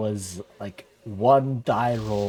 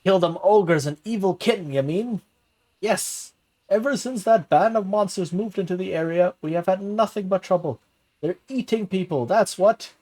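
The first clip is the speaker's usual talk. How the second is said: higher, rustic villager voice; rough villager; 5 semitones higher than usual. Acted. Villager arguing with the mayor about ogres, higher rustic voice. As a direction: grumble like a country yokel.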